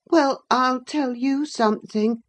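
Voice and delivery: high-voiced, needling boy; peevish boy picking a fight; spiteful boy. A narrator's reading. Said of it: "said Linton".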